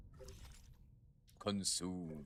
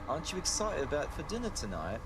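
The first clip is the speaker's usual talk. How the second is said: much higher, bright put-on girl's voice; high girlish voice; 9 semitones higher, 4 dB louder than usual. Friend asking Yi about dinner, high girlish voice. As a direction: pitch way up into a girl's voice. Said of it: "I don't know who's speaking, so no accent to give".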